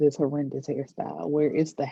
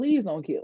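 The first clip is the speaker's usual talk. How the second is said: mock pleading, begging tone; 4 semitones higher than usual. Retelling how a crying man in a chair begged: imitating a man pleading. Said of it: "And so he plead".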